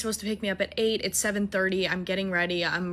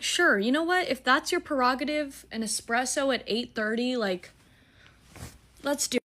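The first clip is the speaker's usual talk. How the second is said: higher, ironic yes; sarcastic agreement; 4 semitones higher than usual. Retold or imitated. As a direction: play along with mock enthusiasm. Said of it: "I'm like".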